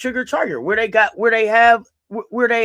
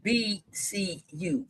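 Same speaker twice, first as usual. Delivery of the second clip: customer service voice; 3 dB louder, slower than usual. Shown as a demonstration. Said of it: "Let me use my customer service voice".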